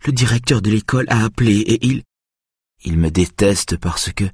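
mildly distressed son's voice; anxious son explaining. A narrator's reading. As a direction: explain yourself until cut off, slowing at the end. Upset son pleading with his mother.

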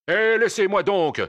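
high, loud protest; indignant shout. Acted. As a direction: cry out to be let go. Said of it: "cria le brigadier".

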